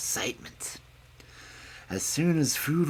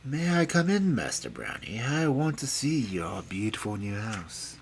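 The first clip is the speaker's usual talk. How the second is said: soft, coaxing disguised voice; gentle voice; 3 dB quieter than usual. Acted. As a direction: coax sweetly through the door. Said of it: "a gentle voice said".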